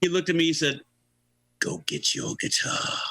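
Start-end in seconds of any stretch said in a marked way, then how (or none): 1.6-3.0 slow, tipsy rock-star impression; a rock singer. Tipsy singer ordering the newcomer to audition, slow mumble. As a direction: order it slowly, as if a few drinks in. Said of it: "he looked like he had a few".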